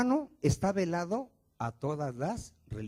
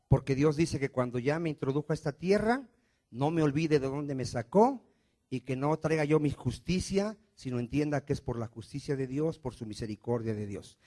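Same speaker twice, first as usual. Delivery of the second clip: ordinary delivery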